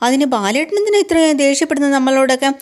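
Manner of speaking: high, bewildered question; wife questioning her husband's anger, voiced high; puzzled wife. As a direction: ask him why he is this angry.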